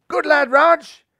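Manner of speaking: high, loud encouragement; hearty captain's cheer; cheering the young batsman on. A narrator's reading.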